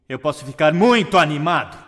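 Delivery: estouro de volume em "muito animado"; muito animado, alto. Shown as a demonstration. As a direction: solte a voz de repente, aguda e forte. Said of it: "usando volume". (bem alto e animado)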